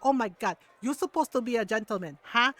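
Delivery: imitated mom shaming a man; mom's accented reproach, ending on a sharp question; scolding mom. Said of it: "like, the mom tone and everything".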